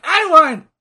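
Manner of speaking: high, loud imitation of a tantrum; mock temper tantrum. Imitating the heel wrestler hitting the ring post, tantrum yell. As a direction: yell it like a sore wrestler throwing a fit. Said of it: "Fucking throwing a temper tantrum".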